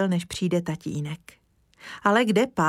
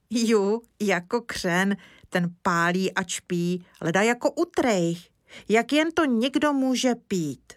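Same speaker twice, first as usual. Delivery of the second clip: put-on little boy; 2 semitones higher than usual. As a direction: speak up like an earnest small boy. Kája speaks.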